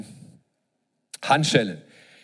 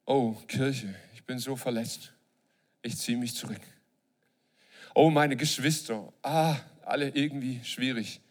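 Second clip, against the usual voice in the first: hurt withdrawn churchgoer; 3 semitones lower, 4 dB quieter than usual. Acted.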